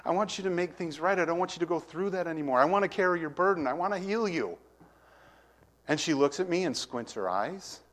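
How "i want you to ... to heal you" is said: tearful pleading. Retold or imitated. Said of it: "I start crying".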